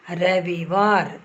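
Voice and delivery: रविवार drawn out slowly and carefully; correct form. Shown as a demonstration. Teacher dictates correct spelling of रविवार to students. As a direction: stretch रविवार syllable by syllable. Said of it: "correct शब्द कैसा लिखना".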